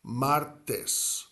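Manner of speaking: martes in two measured beats, MAR-tes; two syllables. Shown as a demonstration. Spanish teacher repeating Tuesday for learners, two clear syllables. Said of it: "Two syllables".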